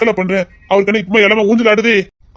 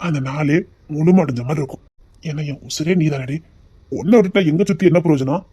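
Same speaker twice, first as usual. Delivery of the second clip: tender. Acted. Romantic confession to wife.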